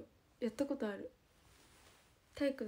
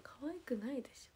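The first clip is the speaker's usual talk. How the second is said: whispered tease; 2 semitones higher, 8 dB quieter than usual. Real, not acted. Teasing aside about Nagoya dialect.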